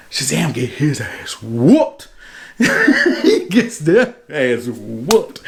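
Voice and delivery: slow words through real laughter; laughing. Real, not acted. Narrator cracking up at the hero's beating, laughing through the words. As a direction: crack up as you tell it.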